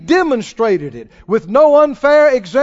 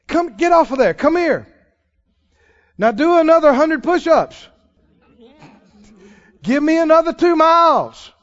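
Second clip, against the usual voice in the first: barking coach; 4 semitones higher, 3 dB louder than usual. Retold or imitated. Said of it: "and the coach says".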